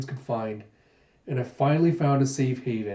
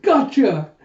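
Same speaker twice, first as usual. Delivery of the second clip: high loud gotcha; triumphant grab; gleeful shout; 10 semitones higher, 8 dB louder than usual. Acted. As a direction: pounce on it. Gita grabbing him.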